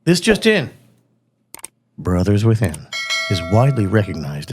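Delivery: steady evening news read; newscaster voice. Acted. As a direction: read it like the nightly news anchor. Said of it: "my best newscaster voice".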